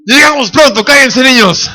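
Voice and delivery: a lightly voiced stubborn dad; stubborn father. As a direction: brush off the family firmly. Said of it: "Y mi papá".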